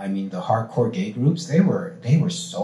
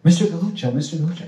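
higher, louder mock call of Mister Galluccio; 8 semitones higher, 6 dB louder, faster than usual. Bride's parents calling after the comedian, higher and louder. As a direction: call his name to get attention. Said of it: "they came up to me and they said".

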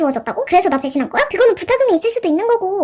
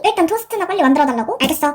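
ordinary delivery

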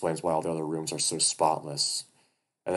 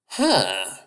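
non-committal grunt; 3 semitones higher, 9 dB louder than usual. Acted. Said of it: "a non-committal grunt from the bear".

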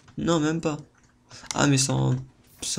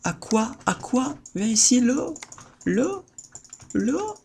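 coaxing call; 7 semitones higher than usual. Real, not acted. Calling water in game.

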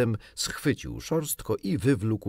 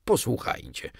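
higher-pitched appeal for a hearing; pleading; 4 semitones higher than usual. A narrator's reading. Father appeals to his children, pleading. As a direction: plead with them to listen. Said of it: "powiedział błagalnie".

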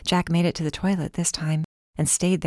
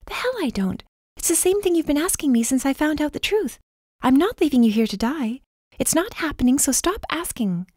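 angry refusal; 10 semitones higher than usual. Acted. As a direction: snap back and refuse. Nyala refuses to leave him.

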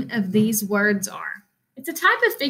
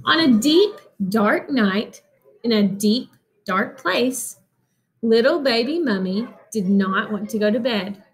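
spooky read-aloud narration; storybook reading. A narrator's reading. Teacher reading a Halloween book to children, lightly spooky. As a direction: draw the kids into the dark night.

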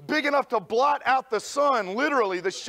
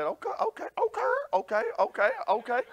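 meek okays; 4 semitones higher, faster than usual. Retold or imitated. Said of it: "And so I said".

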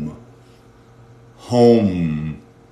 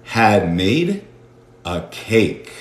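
slow model; 3 semitones lower, much slower than usual. Shown as a demonstration. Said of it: "teacher models slowly".

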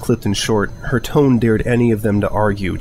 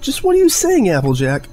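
much higher, loud accusing shout; heated argument shout; angry yelling; 11 semitones higher, 3 dB louder than usual. Acted. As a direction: hurl the question in anger. Friends quarrel, yelling.

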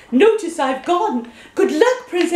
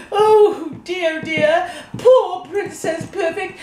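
slow, chuckling pity; amused sigh; laughing pity; 4 semitones higher, slower than usual. Acted. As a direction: laugh through your sympathy. Teapot pities princess, laughing.

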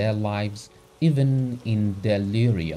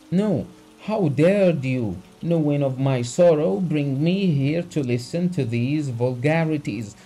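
the doctor shouting at Abogin, pitch raised; shouted; 6 semitones higher, 4 dB louder than usual. A narrator's reading. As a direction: shout it out with outrage. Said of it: "shouted the doctor".

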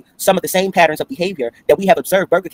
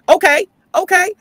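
much higher, slow sing-song okay; drawn-out sassy okay; 5 dB louder, slower than usual. Real, not acted. Answering Aaron's chat, she drawls a high sassy okay. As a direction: stretch it with sass.

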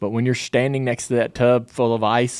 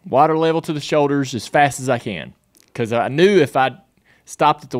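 excited; 4 semitones higher, 3 dB louder than usual. Real, not acted. Excited retelling of plunge.

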